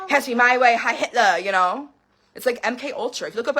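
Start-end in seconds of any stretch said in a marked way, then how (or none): 0.1-1.4 mock irritable bossiness. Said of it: "irritable and angry".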